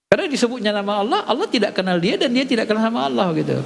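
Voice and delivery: quick words with a laugh running through them; amused and hurried, laughing; laughing while explaining. Real, not acted. The preacher laughs as he explains the punchline to his listeners, laughing.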